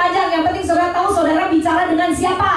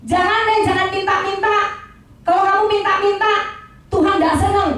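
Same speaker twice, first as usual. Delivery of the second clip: mock warning; 4 semitones higher than usual. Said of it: "Ada yang ngelarang gini".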